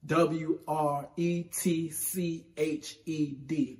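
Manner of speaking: spelled out letter by letter, slow; slow spelling. Shown as a demonstration. Host spells the word for viewers, slowly. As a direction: spell "wretched" slowly, each letter apart. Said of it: "What they're really saying is wretched".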